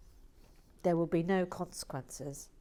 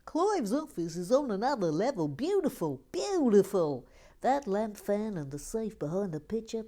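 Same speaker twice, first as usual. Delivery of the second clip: enthusing quote; 3 semitones higher, 3 dB louder than usual. Retold or imitated. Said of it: "John Parry says".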